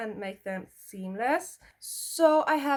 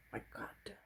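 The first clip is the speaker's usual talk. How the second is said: whispered oh my god; 16 dB quieter than usual. Real, not acted. Reacting to something on her skin.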